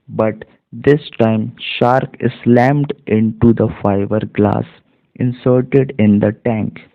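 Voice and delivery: very slow, careful reading aloud; slow model reading. Shown as a demonstration. Teacher reads the whole passage to students, slow and careful. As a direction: read it slowly so students follow along.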